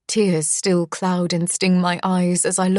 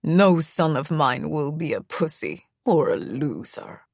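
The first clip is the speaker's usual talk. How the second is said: a hint of the cold father, slightly lower; stern father; 3 semitones lower than usual. The father's verdict on his son, lightly lowered and cold. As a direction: say it like a contemptuous dad. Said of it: "he told me that day".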